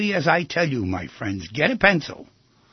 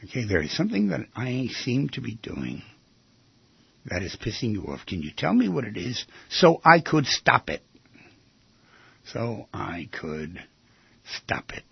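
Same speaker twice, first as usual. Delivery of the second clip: calm demo phrase; 4 semitones lower than usual. Shown as a demonstration. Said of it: "The magic words".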